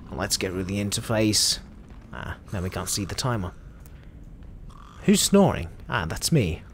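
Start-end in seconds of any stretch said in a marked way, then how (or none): 5.1-5.7 high, puzzled burst; surprised question. Real, not acted. Hearing a snore in the game, surprised high question. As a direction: react to a sudden snore.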